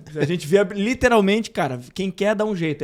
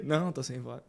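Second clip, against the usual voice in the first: lightly mimicked weak voice; mock hoarse excuse; 6 semitones lower, 10 dB quieter than usual. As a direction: feign having lost your voice, quietly. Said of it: "Assim mesmo".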